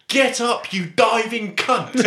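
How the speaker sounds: a Scottish full-back barking at a diver, Glaswegian; imitated Glaswegian yell. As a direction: Glaswegian accent, yelled high. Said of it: "In his thick Glaswegian accent".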